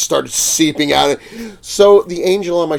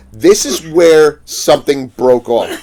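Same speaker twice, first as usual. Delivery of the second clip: slow, slightly louder mock customer; customer impression; 5 dB louder, slower than usual. Retelling a customer's complaint at the booth, mock impression. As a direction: lightly put on a demanding customer's voice. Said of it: "I don't wanna do the impression".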